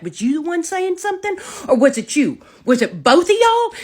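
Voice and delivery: high, rising accusatory questions; mock confrontation. Confronting the boys with a bat.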